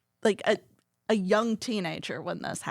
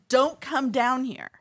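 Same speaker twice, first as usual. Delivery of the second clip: drawn-out, raised warning call; mildly mimicked shout up the stairs; retold yell; 5 semitones higher, 3 dB louder than usual. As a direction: call it out slowly, imitating his yell. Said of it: "he yells up the stairs".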